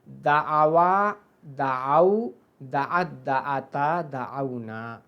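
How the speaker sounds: slow recitation. Shown as a demonstration. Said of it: "दो से पाँच यानी".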